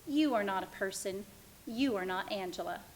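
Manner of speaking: lightly voiced patronising man; a hint of a smug boss talking down; quietly condescending caller; mock condescending caller.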